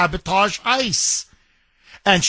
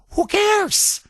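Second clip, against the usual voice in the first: dismissive; 12 semitones higher than usual. Real, not acted. Dismissive rhetorical question.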